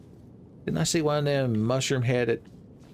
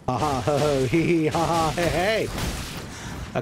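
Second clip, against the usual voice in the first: mock cackle; 3 semitones higher, slower than usual. Mock laughing taunt.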